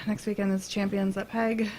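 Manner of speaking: sigh, then announce it with little excitement; dutiful, underwhelmed announcement; unenthusiastic. Real, not acted. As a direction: read it out like a chore after a sigh. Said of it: "You sound so excited about that".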